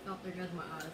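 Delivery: talking through burning chili heat; mouth burning from spice. Real, not acted. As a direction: mouth on fire from hot sauce. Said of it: "my mouth is on fire".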